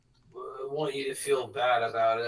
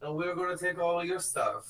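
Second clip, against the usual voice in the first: higher mock-menacing announcement; villain broadcast; 4 semitones higher than usual. Villain on a microphone threatening the planet, hammed-up menace. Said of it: "she's like".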